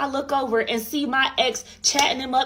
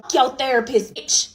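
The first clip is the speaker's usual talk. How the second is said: mock outburst; 3 semitones higher, 4 dB louder than usual. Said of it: "I didn't say bitch".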